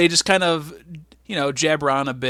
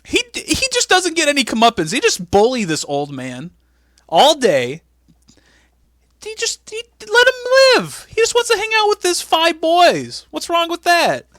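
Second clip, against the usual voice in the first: very high, pleading protest; mock distraught plea; 12 semitones higher, 5 dB louder than usual. Host defends bullied old Vince, high mock-upset pleading. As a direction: whine in high-pitched outrage on his behalf.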